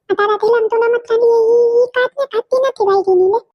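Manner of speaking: put-on a kid refusing to give up her ball; stubborn little girl. Little girl telling her mother she won't share the ball.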